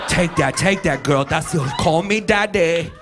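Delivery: playful shouted dirty talk; mock sex shout. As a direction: belt it like a cocky lover.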